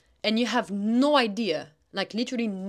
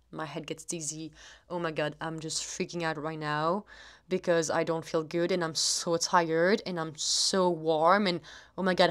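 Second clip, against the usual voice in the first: anxious self-talk; 3 semitones lower than usual. Retold or imitated. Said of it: "My self-talk will go back and forth to".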